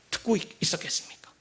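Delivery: trailing into a whisper. Real, not acted. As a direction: let the question fade to breath. Rhetorical question trailing off. (속삭이며 끝맺기)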